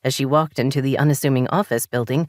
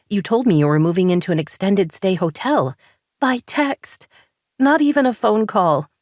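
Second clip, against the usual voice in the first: raised, higher accusing voice; wife confronting husband in therapy, indignant and raised; angry; 5 semitones higher than usual. Acted. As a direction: let the hurt spill out as anger. Daisy confronts Jordan angrily.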